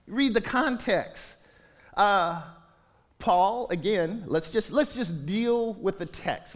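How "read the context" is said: slow and deliberate, stress on Read; slow emphatic plea. Real, not acted. Pastor urging the church to read the context, slow. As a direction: press the point gently but firmly. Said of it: "just seriously".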